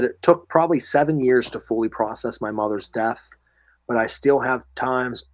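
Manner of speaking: losing voice, a bit hoarse. Real, not acted. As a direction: talk through a worn-out hoarse throat. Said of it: "sorry guys, I'm losing my voice".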